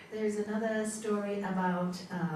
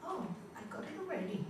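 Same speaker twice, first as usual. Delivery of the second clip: fisherman; 4 semitones higher, 6 dB quieter, much faster than usual. Retold or imitated. Fisherman's punchline reply.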